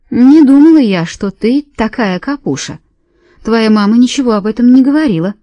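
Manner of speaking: put-on scolding maid with an Irish accent. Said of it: "с отчётливым ирландским акцентом". (с ирландским акцентом, укоризненно)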